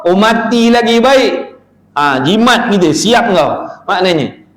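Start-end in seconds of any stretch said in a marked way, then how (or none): 0.0-1.6 mocking sigh. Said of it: "Sangka jahat dengan Allah".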